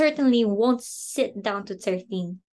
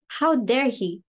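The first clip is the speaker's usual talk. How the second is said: indignant. Acted. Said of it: "I'm perfectly furious".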